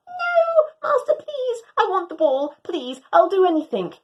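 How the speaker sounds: begging. Acted. Dog begs for the ball.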